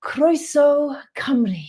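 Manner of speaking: slow, careful Welsh "Croeso Cymru" said by a learner; saying Croeso Cymru in Welsh. Shown as a demonstration. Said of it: "Go on then, go on".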